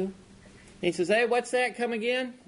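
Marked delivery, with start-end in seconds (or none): 1.1-2.3 mock-deaf husband calling out to ask; deaf old husband. Old husband who can't hear over the TV, raised hard-of-hearing voice.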